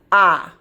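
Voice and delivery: "Ah" as a short open o vowel; short O sound. Shown as a demonstration. Teacher showing the short O to a child. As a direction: sound out "Ah" clearly and loud. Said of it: "listen to my short O".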